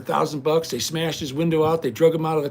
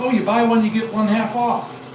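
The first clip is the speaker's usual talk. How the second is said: cashier voice; 6 semitones higher, 4 dB louder than usual. Retold or imitated. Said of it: "the girl said".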